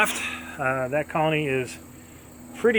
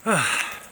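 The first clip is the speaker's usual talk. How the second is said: tired sigh; 2 semitones higher than usual. Real, not acted. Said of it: "Just out of breath".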